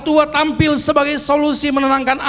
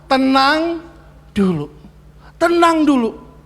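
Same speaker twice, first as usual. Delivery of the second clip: calming father; slower than usual. Retold or imitated. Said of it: "permintaan papinya apa".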